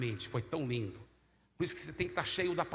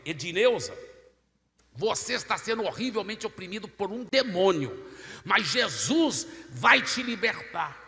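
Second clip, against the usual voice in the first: raised, emphatic preaching declaration; loud proclamation; 3 semitones higher, 6 dB louder than usual. Retold or imitated. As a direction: proclaim it for the whole crowd. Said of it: "bem alto pra todo mundo poder ouvir". (proclamação em voz alta)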